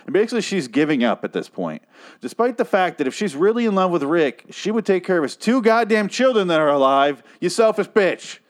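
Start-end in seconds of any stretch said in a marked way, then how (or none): 2.2-8.4 high-pitched scolding outburst; indignant rant. Real, not acted. Ranting at character giving up.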